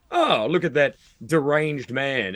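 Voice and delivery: slow, wondering mock onlooker; fond onlooker. Onlookers watching the odd foreigner, slow and indulgent. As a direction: voice an indulgent passer-by, drawn out. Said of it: "because people go".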